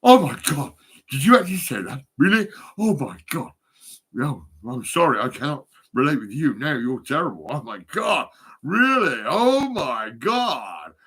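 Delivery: clutch your pearls like a shocked toff; mock posh gasp. Mocking posh people shocked at swearing, loudly scandalised. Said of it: "All the posh people, they're like".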